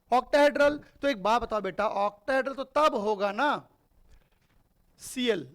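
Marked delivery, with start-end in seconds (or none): 0.1-0.8 loud answer. Acted. Teacher repeating the answer for students, loud. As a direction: repeat the answer loudly, a bit higher.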